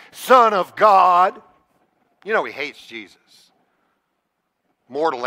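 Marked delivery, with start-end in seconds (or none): 0.1-1.4 slow mocking "son of God"; sarcastic. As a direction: drag out "son of God" with a sneer. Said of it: "he probably said this sarcastically".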